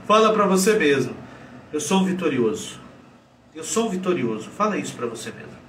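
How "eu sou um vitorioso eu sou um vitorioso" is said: understated, deflated claim of victory; defeated self-affirmation. Shown as a demonstration. Coach repeating the affirmation in a loser's posture, deflated. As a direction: say it as if slumped in defeat. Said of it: "com essa postura de merda que você tá".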